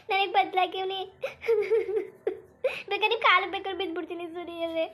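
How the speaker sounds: wife weeping, offering to fall at his feet; crying apology. Acted. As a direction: sob out the promise to change. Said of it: "ಮೊದ್ಲು ನೀವು ಕಣ್ಣೀರ್ ಒರೆಸ್ಕೊಳ್ಳಿ".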